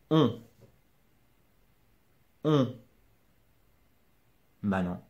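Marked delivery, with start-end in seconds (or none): 0.1-2.7 "On" alone, short, no n at the end; silent final n. Shown as a demonstration. Teacher asking learner to listen, isolated-word demonstration. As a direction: isolate "On" with a pause after. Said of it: "Écoute".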